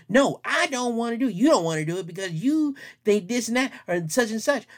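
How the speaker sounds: put-on whiny child. Whiny child refusing parent.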